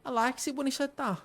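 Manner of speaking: put-on high-pitched Liverpool child; small, high Scouse voice; Liverpool accent. A Scouse child asking a stranger after missing parents, Liverpool accent. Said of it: "She's gonna be from Liverpool".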